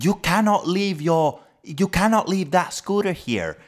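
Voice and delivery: high, slow posh British complainer; shrill posh English. Retold or imitated. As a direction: imitate a fussy posh Englishman, pitched high. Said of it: "puhuu silleen tosi semmoisella kimeellä englannilla".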